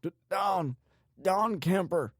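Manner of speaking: high, stammering, frightened voice; scared cry. A narrator's reading. Bound man giving his name to torturer, scared. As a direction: stammer it out in terror. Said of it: "the scared man cried".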